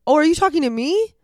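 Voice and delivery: high, loud surprised question; mock surprise. Answering the lady at baggage claim, mock surprise. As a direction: act startled and innocent. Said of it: "I was like".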